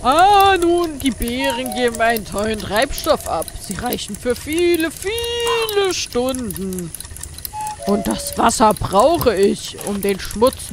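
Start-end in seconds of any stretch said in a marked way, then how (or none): 0.0-6.9 excited. Acted. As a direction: stretch the last words with glee. Inventor explains with rising excitement.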